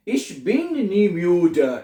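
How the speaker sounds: Ich komme nie zu spät, each word drawn out very slowly; slow dictation. Shown as a demonstration. Teacher dictating a German sentence to learners. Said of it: "क्या बनेगा".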